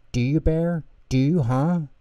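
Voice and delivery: a pushy little fish voice begging; small eager voice, half pleading; pleading Pip and Pop. Acted. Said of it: "they asked worriedly".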